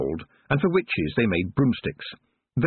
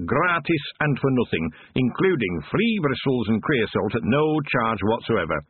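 higher, hurried, over-eager cheer; frantic good humour; 4 semitones higher than usual. Acted. Dwarf fawning over Proust's friend, frantically cheerful. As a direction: gush to win her over fast. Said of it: "all frantic good humour".

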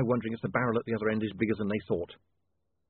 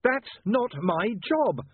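slow, higher shout; 10 semitones higher, 3 dB louder, much slower than usual. A narrator's reading. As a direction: shout the refusal. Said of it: "William shouted".

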